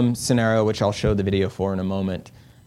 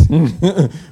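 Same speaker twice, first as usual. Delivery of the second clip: nervous laugh; 7 semitones higher, 7 dB louder than usual. Real, not acted. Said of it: "I'll take that as nervous laughter".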